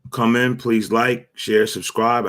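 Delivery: slow flat robot voice. Pretend. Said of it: "I have to say it like a robot".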